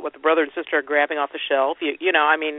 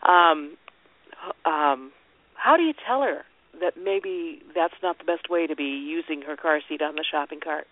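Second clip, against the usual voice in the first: talking while holding back a sneeze; fighting off a sneeze mid-sentence; slower than usual. Real, not acted. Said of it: "I'm holding back, back a sneeze, so I'm gonna sound funny".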